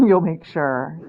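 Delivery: amused repeat through a laugh. Real, not acted.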